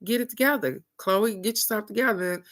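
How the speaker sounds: imitating a no-nonsense talking-to; stern cousin. Cousin to crying three-year-old at night, retold stern scolding. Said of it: "she told her".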